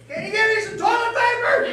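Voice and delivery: high, sweet little ask; wife calling down sweetly for toilet paper; wife's request. Retold or imitated. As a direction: ask for it meekly, sheepish. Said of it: "And then you hear".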